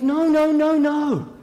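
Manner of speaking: urgent denial. Acted. Mary protests her innocence.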